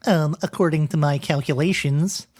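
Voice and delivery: lightly put-on nerdy Ohio accent; a hint of a nerdy Ohio author; Stephen Markley voice. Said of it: "my Stephen Markley nerdlinger voice".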